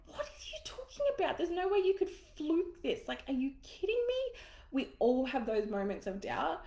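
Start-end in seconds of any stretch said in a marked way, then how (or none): 0.1-4.4 much higher, incredulous husband voice; mock his disbelief; husband's incredulous reply, lightly voiced; imitating husband. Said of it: "And he's like".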